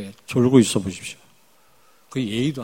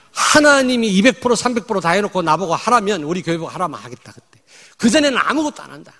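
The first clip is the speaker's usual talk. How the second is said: raised, insistent vow; emphatic declaration; 6 semitones higher, 7 dB louder than usual. Real, not acted. Preacher to congregation, vowing loudly. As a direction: declare it firmly from the pulpit.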